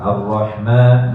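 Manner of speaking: ma in Ar-Rahman drawn out for two counts; Ar-Rahman held two beats. Shown as a demonstration. Teacher modelling Ar-Rahman, ma held two beats. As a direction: stretch the ma of Ar-Rahman evenly. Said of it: "ma dua harokat".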